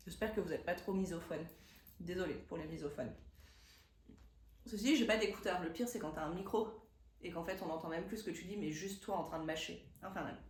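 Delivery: talking while chewing candy. Real, not acted. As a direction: chew and speak at once. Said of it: "Trop tard, j'ai croqué".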